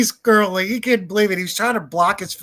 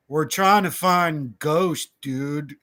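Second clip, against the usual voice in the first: drawn-out confession; much slower than usual. Retold or imitated. Retelling his friend's confession to cop.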